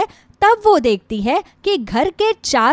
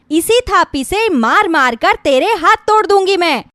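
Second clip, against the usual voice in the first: bully her into working; harsh threat; 3 semitones higher than usual. Acted. Cruel mother-in-law threatens bride. (गुस्से में धमकाती हुई सास)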